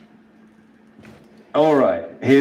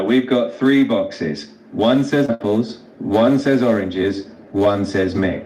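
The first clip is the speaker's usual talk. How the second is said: slowed down, item by item; slow repeat. Shown as a demonstration. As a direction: go over it slowly for a listener who got lost. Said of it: "So start over slowly".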